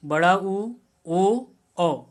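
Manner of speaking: उ, ओ, औ with rounded lips, drawn out; vowel demo. Shown as a demonstration. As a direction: sound out ओ and औ slowly, lips rounded. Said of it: "इसको कैसे हम उच्चारित करेंगे". (स्वरों का स्पष्ट उच्चारण)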